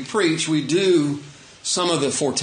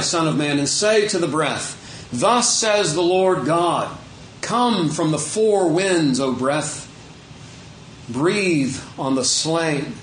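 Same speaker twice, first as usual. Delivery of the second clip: scripture reading. Acted. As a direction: call it out phrase by phrase, drawing words out. Reads scripture aloud to congregation.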